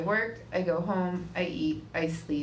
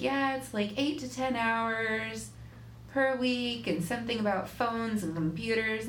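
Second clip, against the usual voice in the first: recruiter voice; 6 semitones higher than usual. Retold or imitated. Imitating the recruiter on phone.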